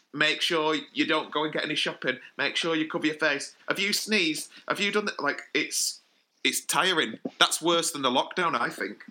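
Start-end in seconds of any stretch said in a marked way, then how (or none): 0.1-5.2 fussing parents. Retold or imitated.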